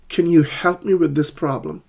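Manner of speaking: "help" and "problem" stressed, falling end; stress on key words. Shown as a demonstration. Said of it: "two words in the sentence are stressed".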